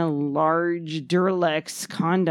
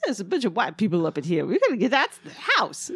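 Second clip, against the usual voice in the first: Eddie Murphy impression; faster than usual. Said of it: "That's Eddie Murphy".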